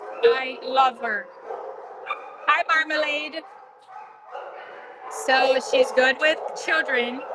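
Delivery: talking up over kennel noise. Real, not acted. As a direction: project to viewers over the din. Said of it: "Sorry if I'm screaming".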